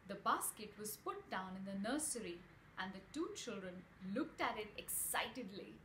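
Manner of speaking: put-on bright read-aloud voice for children; storybook reading to kids; story narration. A narrator's reading. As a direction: tell it like a bedtime story.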